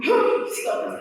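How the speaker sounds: sudden breathy gasp of effort; sharp gasp. Shown as a demonstration. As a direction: gasp like a lifter straining. Demonstrating lifter's gasp.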